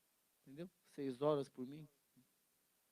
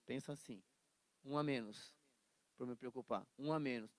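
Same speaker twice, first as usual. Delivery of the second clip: devil; 7 semitones lower, 5 dB quieter than usual. Acted. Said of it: "Aí o diabo tá lá".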